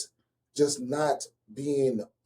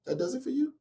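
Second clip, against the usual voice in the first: incredulous; 10 semitones higher, 6 dB quieter than usual. Retold or imitated. Incredulous retort.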